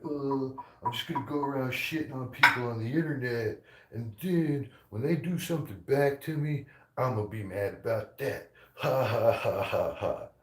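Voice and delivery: hammed-up mock voice with a taunting ha ha ha; mocking whiny imitation. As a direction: mimic her like a smug fool, ending in fake laughter. Mocking the woman's own excuse.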